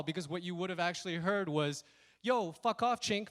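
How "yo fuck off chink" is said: loud, higher, run together; not quiet. Retold or imitated. What was actually heard from the thief, loud insult. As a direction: throw the insult out in one loud burst. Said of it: "it wasn't quiet at all".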